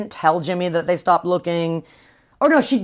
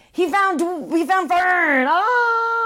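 hammed-up sob, much higher and slow; fake-cry the big reunion news; mock sobbing; 10 semitones higher, much slower than usual. Retelling Jimmy finding his sister.

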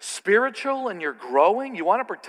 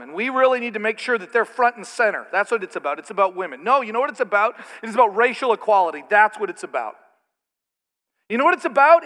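mocking faction voices; 2 semitones higher, 4 dB louder than usual. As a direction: parody each group's pet cause with fake zeal. Mocking each church faction's obsession.

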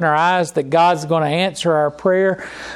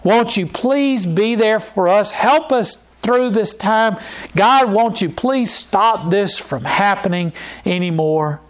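pleading prayer; 2 semitones higher than usual. Retold or imitated. Preacher voicing the congregation crying to God, raised pleading. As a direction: beg God for help, hands lifted. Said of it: "we lift up our voice to God and we say".

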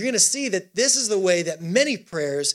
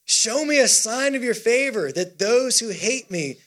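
firm, measured proclamation; psalm reading; 2 semitones higher than usual. Acted. Preacher leading the church in verse, firm declamation. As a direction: read it out deliberately to the room.

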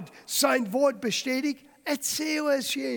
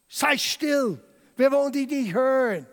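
a touch sharp and louder, hushing; rebuking crowd; 3 semitones higher, 5 dB louder than usual. Acted. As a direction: shush him down, irritated. Crowd rebukes the blind beggar.

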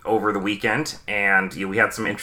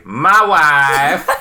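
excited announcement; 8 semitones higher, 6 dB louder than usual. Acted. Grand introduction after countdown.

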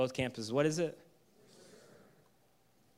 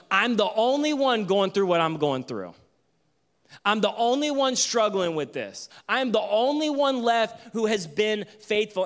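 higher, pleading whine; whining self-pity; 5 semitones higher than usual. Acted. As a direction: plead like the only faithful one left. Elijah's self-pity acted out.

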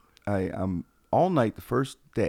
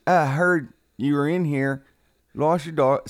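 helpful stranger; 5 semitones higher, 6 dB louder, slower than usual. Retold or imitated. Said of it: "he goes".

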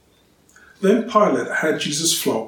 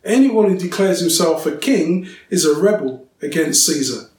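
loud, higher stammering shout; shouting leaders; 6 semitones higher, 6 dB louder than usual. A narrator's reading. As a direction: shout the threat at Pilate. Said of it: "the Jewish leaders shouted".

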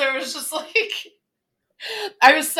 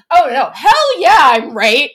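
emphatic mock; 7 dB louder than usual. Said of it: "I'm like".

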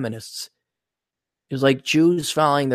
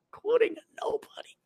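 whisper; 9 dB quieter than usual. Real, not acted. Whispered aside.

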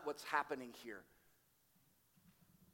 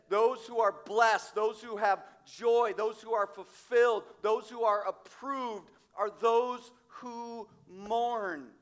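preaching force; 4 semitones higher, 7 dB louder, slower than usual. Acted. Preacher building to emphatic quote.

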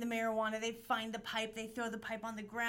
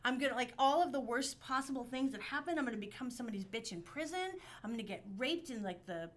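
higher, louder, rushed panic; panicked spiral; 4 semitones higher, 5 dB louder than usual. Retold or imitated. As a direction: spiral into fear.

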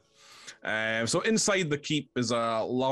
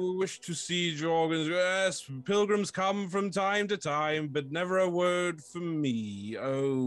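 a touch higher, wistful; lonely fort, only a little above the usual voice; lightly voiced fort; 7 semitones higher than usual. Fort tells the pilgrims about its silence, lightly raised voice.

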